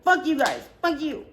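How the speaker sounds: put-on drunk snapping. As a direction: snap at your friends like a sore drunk. Drunk friend lashing out.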